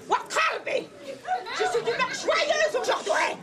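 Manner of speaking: high, loud, slow ogress declaring her joy; gleeful ogress voice, high and slow. Acted. Ogress repeats her cry.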